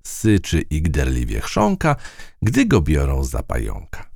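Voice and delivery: slow, measured verse reading; slow nursery-rhyme recital; poem recital. A narrator's reading.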